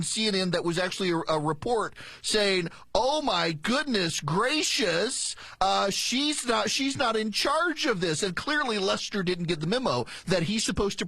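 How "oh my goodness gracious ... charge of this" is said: slow, drawn-out fussy protest; mock dismay. Host voicing her team's op-ed, mock dismay. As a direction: draw out each word in pretend shock.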